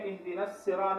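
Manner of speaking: الصراط with a thin plain s; wrong seen for saad. Shown as a demonstration. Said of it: "صاد کی جگہ ہم نے سین نہیں پڑھنا".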